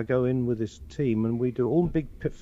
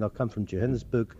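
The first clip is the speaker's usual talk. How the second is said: South African accent; 2 semitones lower, 3 dB quieter than usual. Shown as a demonstration. Looping actor playing a Johannesburg local, South African accent. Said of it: "So I did a picture last week".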